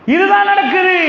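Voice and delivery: இதுதான் pitched high and rising. Shown as a demonstration.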